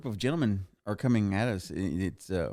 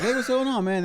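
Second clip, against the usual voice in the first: much higher, louder bro greeting; dude voice; 13 semitones higher, 4 dB louder than usual. Retold or imitated. Comedians greet back, much higher. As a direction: play the passing comedians. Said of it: "they were like".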